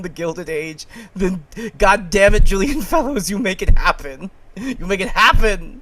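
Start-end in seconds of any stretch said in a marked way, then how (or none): 1.1-5.8 emphatic demand. Real, not acted. Rallying demand to Julian Fellows.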